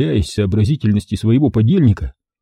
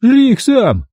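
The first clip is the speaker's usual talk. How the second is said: high, louder disgusted retort; disgusted snap; 13 semitones higher, 4 dB louder, slower than usual. A narrator's reading. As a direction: spit it back. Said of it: "с отвращением спросил Кострат".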